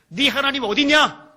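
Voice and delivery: loud, high challenge; jeering taunt. Acted. Enemies scorning a suffering believer, loud jeering taunt. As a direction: throw the question out as a taunt.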